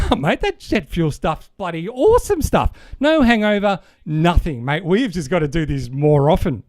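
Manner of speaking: a bloke raving about jet fuel, lightly voiced and laughing; laughing mate. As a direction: voice Dave with a laugh in it. Dave laughing in the dad joke.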